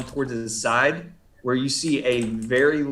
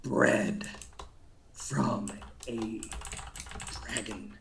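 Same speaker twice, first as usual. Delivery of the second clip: low, slow creature growl; dragon creature voice; 5 semitones lower, 5 dB quieter, much slower than usual. Acted. Creature answering the player's insult, low and slow. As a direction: speak slowly and low as the dragon-bred beast.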